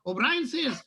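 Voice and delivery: a light Irish lilt throughout; lightly voiced Irish storyteller; Irish accent joke telling. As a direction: tell the Paddy joke in a mild Irish brogue.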